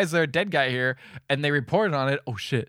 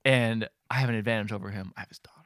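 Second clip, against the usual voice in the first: hushed villain whisper; 7 semitones lower, 8 dB quieter than usual. Retold or imitated. Villain's line quoted.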